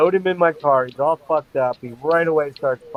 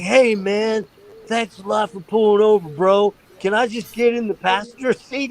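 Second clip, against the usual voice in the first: put-on drunk brother; 6 semitones higher than usual. Drunk brother thanks a stranger.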